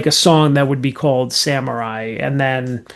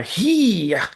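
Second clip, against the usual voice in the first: high mock samurai battle cry; samurai shout; 5 semitones higher, 3 dB quieter than usual. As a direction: yell it like a cartoon samurai. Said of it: "That's my Samurai".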